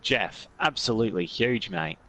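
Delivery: broad Australian huge, mate; Aussie accent. Pretend. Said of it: "I'm doing this in my best Aussie accent".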